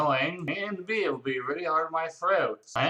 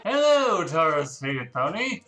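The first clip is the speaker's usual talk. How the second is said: mock greeting; 5 dB louder than usual. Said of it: "and I'm like".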